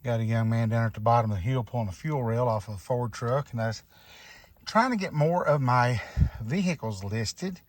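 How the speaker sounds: out of breath, talking between breaths; winded from the uphill walk. Real, not acted. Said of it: "if it sounds like I'm out of breath, I am".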